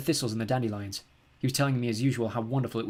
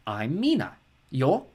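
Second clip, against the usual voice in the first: bored sing-song; 2 semitones higher, 3 dB louder, much slower than usual. A narrator's reading. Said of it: "bored-sounding sing-song voice".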